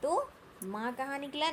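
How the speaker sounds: normal talking voice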